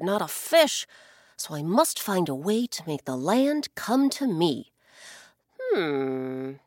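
a lightly voiced scheming blackbird, thinking aloud; a hint of a clever little bird, brisk then musing. Blackbird talking to himself about the land below, lightly voiced.

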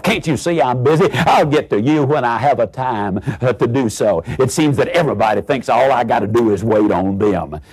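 acted busy waiter chewing out a customer; mild irritated outburst. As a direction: snap at the customer with mock exasperation. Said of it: "proceed to take your head off".

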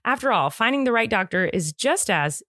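scripted, upbeat sponsor read; podcast ad read. Acted. Host reading listeners a sponsor message, polished ad read.

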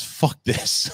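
whispered under the breath; muttered curse. Retold or imitated. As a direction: breathe it out, defeated. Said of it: "my words after that".

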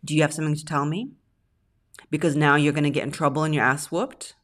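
mothering voice. Retold or imitated. Mimicking a woman mothering her partner, scolding. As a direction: talk down like a mother to a naughty child. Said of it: "This is a mothering sentence".

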